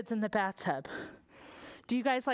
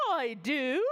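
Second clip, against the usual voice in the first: queen. Acted. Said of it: "cried the queen".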